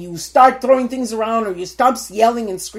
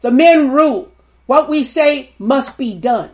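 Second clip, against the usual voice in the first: mock macho men; 4 semitones higher, 6 dB louder than usual. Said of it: "Like they owned the world".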